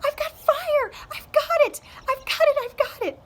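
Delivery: loud high shout of joy; loud, high triumphant yell. A narrator's reading. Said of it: "he yelled".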